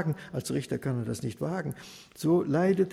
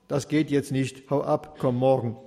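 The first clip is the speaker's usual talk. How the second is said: dismissive judge; 3 dB louder than usual. Acted.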